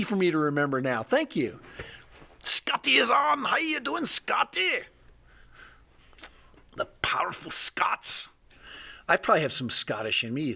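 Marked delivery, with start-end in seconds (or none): 2.4-4.8 high hammed-up shout; mock call out. Greeting Scotty in chat with a high mock shout. 6.8-8.3 whisper. Pretend. Whispered aside about Scots.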